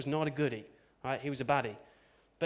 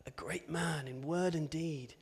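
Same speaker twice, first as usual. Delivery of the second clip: mock solemn; 5 dB quieter, slower than usual. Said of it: "hearing an obituary".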